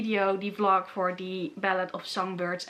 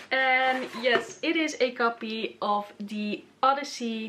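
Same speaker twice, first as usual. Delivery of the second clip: trying English accent; slower than usual. Shown as a demonstration. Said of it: "how do I say it in an English accent?".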